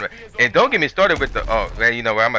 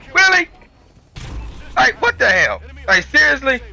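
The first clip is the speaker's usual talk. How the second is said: outraged disbelief; 10 semitones higher than usual. Retold or imitated. Supervisors all gone, again.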